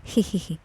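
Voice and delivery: soft grinning hee-hee-hee; a quiet cheeky giggle; sheepish giggle. A narrator's reading. Hasni grinning at Rakshit's question, soft sheepish giggle. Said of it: "పల్లికిలిస్తూ".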